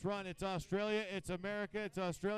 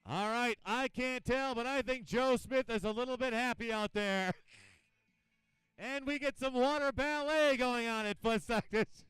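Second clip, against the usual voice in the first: lively, raised announcer voice; live event commentary; 3 semitones higher, 6 dB louder than usual. Real, not acted. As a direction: call the action for the crowd.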